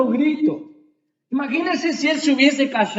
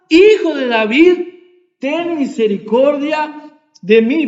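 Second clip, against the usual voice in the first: louder, raised cry for mercy; imitated loud clamour; 3 semitones higher, 4 dB louder than usual. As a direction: proclaim the beggar's plea in a raised voice, phrase by phrase. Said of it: "él clamaba mucho más".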